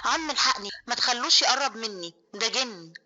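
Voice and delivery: cling to him and beg in panic; terrified scream. Acted. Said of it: "صرخت ومسكت في رقبة عمها". (صرخة مرعوبة بصوت عالي شوية)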